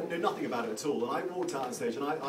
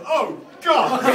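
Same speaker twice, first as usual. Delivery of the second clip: laughing; 12 semitones higher, 13 dB louder than usual. Retold or imitated. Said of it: "heard him go".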